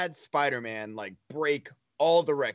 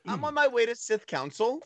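mock serious; 9 semitones higher than usual. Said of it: "imagine just saying that seriously".

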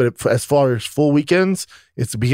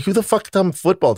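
mock confusion; 6 semitones higher than usual. Confused by daughter's words.

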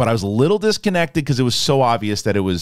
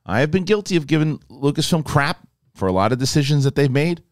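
ordinary delivery

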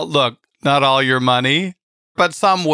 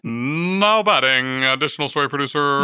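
baseball announcer voice. Pretend. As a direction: call it like a ballpark PA announcer. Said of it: "It's my baseball voice".

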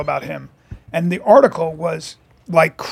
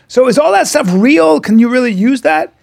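timid question; 5 semitones higher than usual. Retold or imitated. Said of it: "He goes".

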